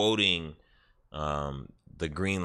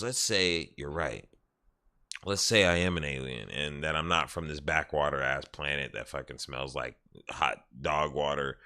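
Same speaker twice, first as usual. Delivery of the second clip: low, measured retold confession; real serious; 5 semitones lower, 4 dB quieter than usual. Alien guy half-admitting what he is, real serious. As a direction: drop the pitch and state it evenly. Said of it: "then it got real serious".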